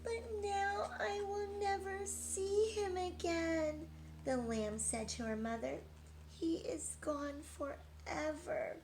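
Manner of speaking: high, slow mournful lamb; slow and sorrowful, missing her friend; sad lamb. A narrator's reading.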